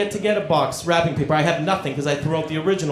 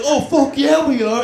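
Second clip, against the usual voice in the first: mock eager; 7 semitones higher, 3 dB louder than usual. Imagined wife's eager reply.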